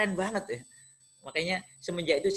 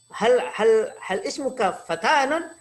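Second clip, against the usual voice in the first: lightly voiced teacher, raised and stuttering question; teacher's puzzled question; 3 semitones higher, 4 dB louder than usual. Teacher questioning pupil's written name, lightly imitated puzzlement. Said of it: "Lalu guru saya".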